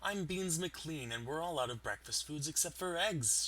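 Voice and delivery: lightly voiced cheery shop welcome; a hint of a perky barista greeting customers; cheerful barista. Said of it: "The barista cheerfully says".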